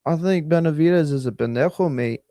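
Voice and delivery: lightly put-on Aussie accent, barely shifted from his own; a half-hearted Aussie twang on a quip; Australian accent. Streamer joking about a boxing analyst, mild Australian accent. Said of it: "That, that was my Australian accent".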